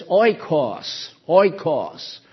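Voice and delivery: "oikos" said slowly, OY-kos; "oikos" as a teacher says it; Greek word oikos. Shown as a demonstration. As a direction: spell out "oikos" carefully. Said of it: "There is a Greek term for a house".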